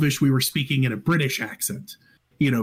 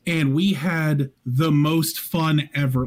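Australian accent; 3 semitones higher, slower than usual. Shown as a demonstration. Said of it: "talking like this".

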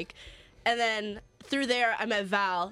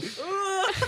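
mock faint groan; 9 semitones higher than usual. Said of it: "very faint, like".

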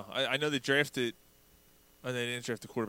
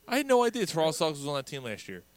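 surprised; 5 semitones higher, 4 dB louder, faster than usual. Real, not acted. Disbelief at roster news.

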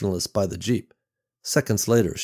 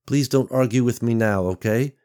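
softened but firm; 3 semitones higher than usual. Acted. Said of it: "softening her tone, but keeping it firm".

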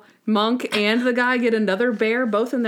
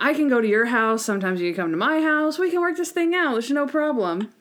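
higher, pleading deal-making voice; mock bargaining; 4 semitones higher than usual. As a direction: bargain eagerly to make it work. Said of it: "it was bargaining".

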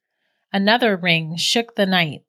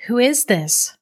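stammering; 5 semitones higher than usual. Acted. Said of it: "she stammered".

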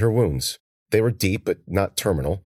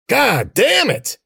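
slow, high, loud strained yell; 4 dB louder, much slower than usual. A narrator's reading. Cece yelling from the woods as she fights. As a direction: yell it out in frustration. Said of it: "grunted, and yelled".

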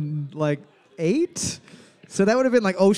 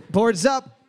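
host shout; 5 semitones higher, 4 dB louder than usual. Acted.

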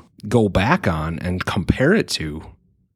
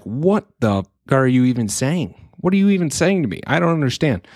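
higher-pitched mock bewilderment; baffled five-year-old; 5 semitones higher than usual. Child reacting to stock market explanation, baffled kid voice. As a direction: lightly imitate a child who is totally lost. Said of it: "she's gonna sit there like".

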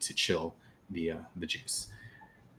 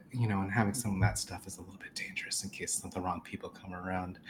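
whispered warning; 6 dB quieter, faster than usual. Acted. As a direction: warn him discreetly.

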